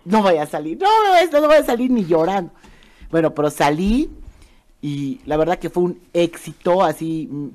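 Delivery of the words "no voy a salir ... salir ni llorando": rising, louder frantic no; panicked refusal. Retold or imitated. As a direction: beg off in a panic. Refusing to go on stage.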